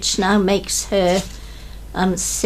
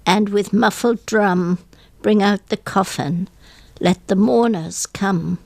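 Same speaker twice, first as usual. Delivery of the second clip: mournful poem reading. Acted. Guest on radio reads a funeral poem, hushed and mournful. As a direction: let each line fall like grief.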